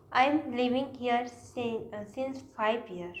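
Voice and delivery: slow, halting read of the wrong sentence; teacher presenting the error slowly; slow wrong example. Shown as a demonstration. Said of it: "गलत".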